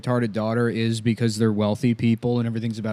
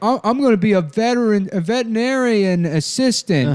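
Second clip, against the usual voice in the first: much higher, stumbling eager voice; film daughter impression; 9 semitones higher than usual. Daughter telling parents her plans, high mock voice. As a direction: announce it proudly in a high put-on voice. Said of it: "she comes home and she's like".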